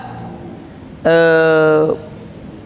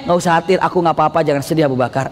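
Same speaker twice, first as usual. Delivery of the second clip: reassuring Prophet; 5 semitones lower, faster than usual. Acted. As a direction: soothe a worried friend gently. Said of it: "Nah, itu maksudnya".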